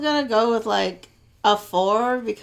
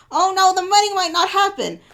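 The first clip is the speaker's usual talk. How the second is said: fretting parent; 9 semitones higher, 4 dB louder than usual. Retold or imitated. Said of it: "the conversation goes like this".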